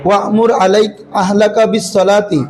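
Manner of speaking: slow, measured Quranic recitation. Acted. Teacher recites the verse to the students slowly and measuredly. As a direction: chant the verse slowly and evenly.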